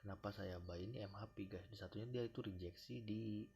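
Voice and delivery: drowsy, nodding off while talking; sleepy. Real, not acted. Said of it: "aduh, sorry, ngantuk nih".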